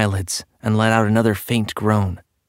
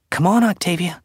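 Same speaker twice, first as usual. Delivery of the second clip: higher, gently urging tone; coaxing; 7 semitones higher than usual. A narrator's reading. Brother draws his frightened sister from the closet, coaxing. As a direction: coax a little one out. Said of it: "he coaxed".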